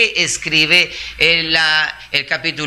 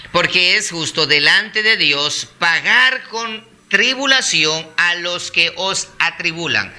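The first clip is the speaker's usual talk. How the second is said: deliberate scripture reading; measured recitation; slow, calm reading. Real, not acted. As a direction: read the verse out unhurriedly. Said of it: "es leerlo despacio, calmado".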